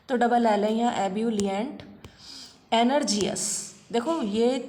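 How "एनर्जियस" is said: एनर्जियस said slowly, syllable by syllable as it is spelt; spelling pronunciation. Shown as a demonstration. Teacher sounding out एनर्जियस as spelt so students can write it. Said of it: "pronunciation मैं इस तरीके से बोल रही हूँ ताकि आप ये लिख लो".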